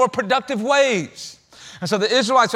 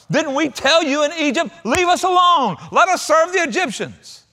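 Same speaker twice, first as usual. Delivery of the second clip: mocking whine; 8 semitones higher than usual. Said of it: "Is that what they really said?".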